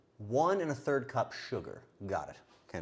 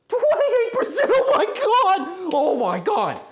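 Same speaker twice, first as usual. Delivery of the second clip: high, loud shriek through laughter; laugh-scream in disbelief; shocked laughing scream; 9 dB louder than usual. Real, not acted. Shrieking at the corruption score through laughter.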